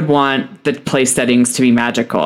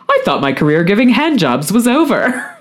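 laughing quote; 7 semitones higher than usual. Retold or imitated. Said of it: "Hannah had a really funny quote".

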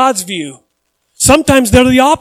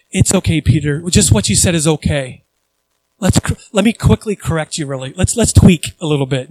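gentle correction; 5 semitones lower than usual. Retold or imitated. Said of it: "He's not just going".

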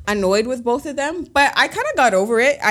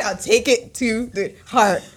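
tearful; slower than usual. Real, not acted. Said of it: "I start crying".

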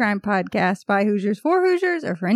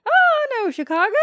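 much higher, louder mocking oh; mock surprise; 13 semitones higher, 5 dB louder than usual. Mother imitating locals hearing of Chicago, high mock surprise. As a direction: squeal it like a surprised foreigner. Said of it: "And they're like".

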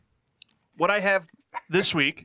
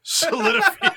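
high squeal; 13 semitones higher, 5 dB louder than usual. Real, not acted. Echoes the word in a squeal.

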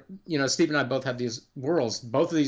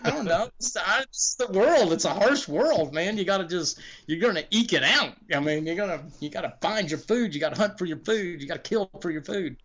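higher, defensive matter-of-fact rant; mock defensive shrug; 4 semitones higher than usual. Designer defending a stingy dungeon to Kent, mock shrugging defence. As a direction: brush it off, it's a harsh world. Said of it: "And I was like".

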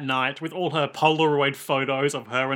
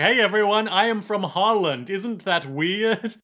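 higher, hammed-up Dutch accent; Goldmember; 4 semitones higher than usual. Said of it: "the Netherlands is gold member".

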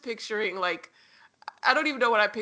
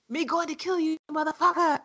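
mock Jamaican accent, higher pitch; a hammy fake Jamaican accent; bad Jamaican accent; 6 semitones higher than usual. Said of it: "It's just a bad Jamaican accent".

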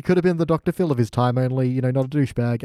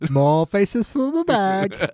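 slow, creepy face-collector voice; creepy Arya; 4 semitones higher, much slower than usual. Retold or imitated. Podcaster echoing Arya's face-stealing glee, slow and sinister. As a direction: savour each word, slow and sinister.

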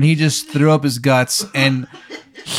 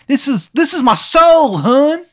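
put-on high, loud outraged Baltimore accent; furious, Maryland accent; 14 semitones higher, 6 dB louder, slower than usual. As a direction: wail indignantly in a bad Maryland accent. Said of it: "because he looks furious".

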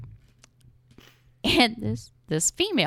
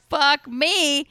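loud, higher exasperated outburst; exclaiming; 10 semitones higher, 7 dB louder than usual. Retold or imitated. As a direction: blurt it out in disbelief. Learning the cure.

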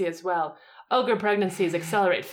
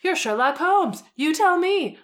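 smug and a little higher; 8 semitones higher, 4 dB louder than usual. Acted. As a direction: say it with a smug smile, teasing. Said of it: "said with a smug smile".

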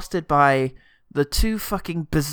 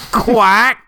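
high, loud punchline; 7 semitones higher, 8 dB louder than usual. Pretend. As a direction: hit the pun hard. Pun punchline.

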